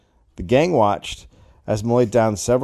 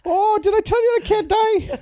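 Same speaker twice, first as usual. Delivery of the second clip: put-on squeaky drunk voice. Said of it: "Malloy voiced".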